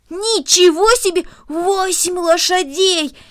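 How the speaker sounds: high, loud, slow wonder; amazed exclamation. Acted. Boy hearing of eight horses, exclaiming in amazement. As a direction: draw out each word, astounded. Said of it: "воскликнул Дино".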